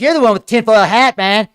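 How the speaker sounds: imitating a man freaking out at him; mock yell. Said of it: "he's like".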